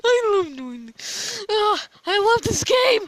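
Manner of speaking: bursting with glee; gleeful laughter. Real, not acted. Gleeful after trolling the seeker.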